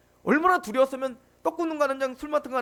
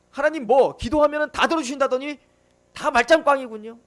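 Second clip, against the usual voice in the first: bitter complaint; 7 dB louder than usual. Retold or imitated. Imagined Paul complaining to God.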